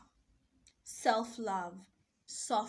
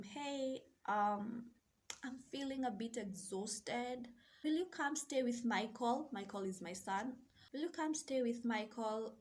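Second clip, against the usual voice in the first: gentle request; 6 dB quieter than usual. Retold or imitated. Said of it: "I reframed the words".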